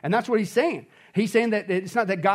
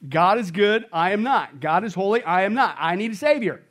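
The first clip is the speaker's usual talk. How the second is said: louder, lines hammered one by one; emphatic creed; 3 dB louder than usual. Real, not acted. Pastor repeating the refrain to church, emphatic. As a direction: proclaim it as a refrain.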